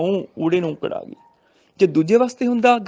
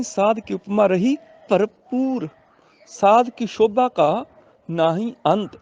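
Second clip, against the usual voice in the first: slow, drawn-out sacred verse reading; measured teaching recitation; scripture recitation for teaching; 3 semitones higher, slower than usual. Shown as a demonstration. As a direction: recite the line slowly, stretching the ends.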